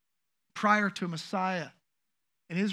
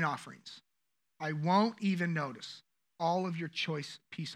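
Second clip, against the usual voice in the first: measured, stern scripture reading; acted divine reproach, held in check; sharp rebuke; 3 semitones lower than usual. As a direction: deliver a prophet's rebuke with firm stresses. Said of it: "listen to these sharp words".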